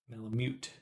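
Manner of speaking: Malamute said to rhyme with "cute"; practised "myoot" ending. Shown as a demonstration. Streamer practising a hard pronunciation, Malamute ending "myoot". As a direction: try Malamute with a careful "myoot". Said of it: "hard for me to say it like that".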